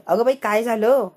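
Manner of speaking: loud, alarmed "what happened?"; startled outcry. Acted. Reva startled as Rama confronts her, loud outcry. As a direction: blurt it out, caught off guard.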